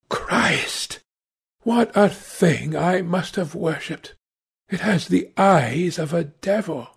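horrified, dramatic character voice with lifted pitch; lightly acted anguish, measured and emphatic; anguished dialogue. Painter and Dorian argue in story.

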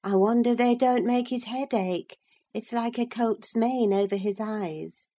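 a hint of a prissy young gentleman; prim boy's remark. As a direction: Linton sniffing at the boy's hair. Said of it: "observed Master Linton".

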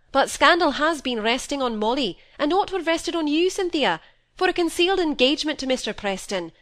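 father confronting Cynthia, sharp rebuke; rising scolding. A narrator's reading. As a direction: press the charge home.

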